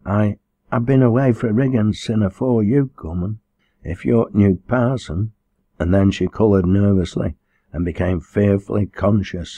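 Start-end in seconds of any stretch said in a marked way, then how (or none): 0.0-5.3 hesitant dialect voice, slightly raised; nervous stammer. Acted. Frightened girl to the new parson, stammering. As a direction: stumble on the opening word, then break off. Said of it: "she stammered".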